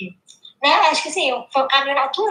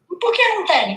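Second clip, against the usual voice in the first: imitating little girl; 7 semitones higher than usual. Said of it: "Aí ela".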